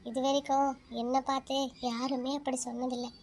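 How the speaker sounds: put-on a lonely girl confiding her sorrow to the moon; soft inner talk. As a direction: talk gently to the moon in your head. Girl talks softly to the moon.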